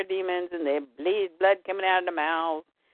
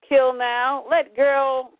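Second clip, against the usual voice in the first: a touch higher and louder creature order; monster voice; 4 semitones higher, 4 dB louder, much slower than usual. Acted. A Parademon ordering the kill, a touch higher. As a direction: bark a broken command. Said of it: "he says".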